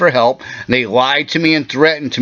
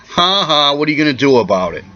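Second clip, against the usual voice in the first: mocking government. Ranting man mimics the government taunting him, fast sneer. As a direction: mimic a smug official laughing it off. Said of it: "The government's coming in your mouth and saying".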